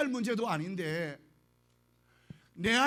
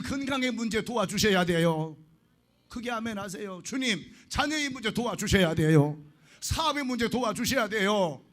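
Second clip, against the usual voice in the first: urgent pleading prayer; 3 dB louder than usual. Shown as a demonstration. Pastor voices urgent petitions.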